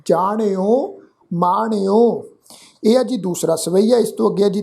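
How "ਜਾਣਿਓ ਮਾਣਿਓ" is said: ਜਾਣਿਓ ਮਾਣਿਓ slowly, each with a curled-tongue ṇ; retroflex n. Shown as a demonstration. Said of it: "ਇੱਥੇ ਵੀ ਨਾਣਾ ਅੱਖਰ ਹੈ". (ਜਾਣਿਓ ਮਾਣਿਓ ਹੌਲੀ, ਨਾਣੇ ਦੀ ਧੁਨੀ ਨਾਲ)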